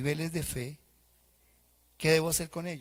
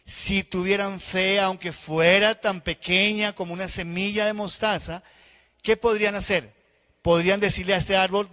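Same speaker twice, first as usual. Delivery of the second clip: the Lord answering; 2 semitones higher, 6 dB louder than usual. Acted. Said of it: "el Señor respondió".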